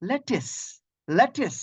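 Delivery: "লেটিস" with a short e and final s; correct pronunciation. Shown as a demonstration. Teacher shows students how to say lettuce, correct pronunciation. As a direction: say "লেটিস" as LET-iss. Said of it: "তাহলে এটা কি হয়ে যাবে?".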